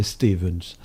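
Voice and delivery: "Stevens" in a Flemish accent. Shown as a demonstration. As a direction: give "Stevens" its Flemish long é. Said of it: "l'accent flamand".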